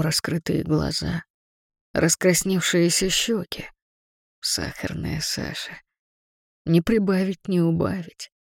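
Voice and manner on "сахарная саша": low breathy whisper of her name. Acted. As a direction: whisper it like a secret. Whispered name in his thoughts.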